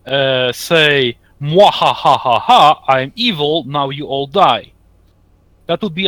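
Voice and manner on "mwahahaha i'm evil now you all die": wild unhinged ranting. Retold or imitated. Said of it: "you can't just suddenly, uh, say".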